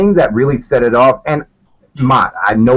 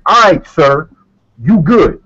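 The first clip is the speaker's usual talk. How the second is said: passive aggressive; 2 semitones higher, slower than usual. Retold or imitated. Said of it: "a very aggressive turn".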